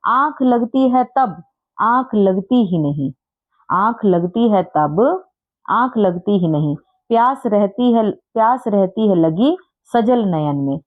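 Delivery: slow, sing-song rhyme recital; slow poem recitation. Shown as a demonstration. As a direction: recite it slowly like a children's poem. Teacher recites verse.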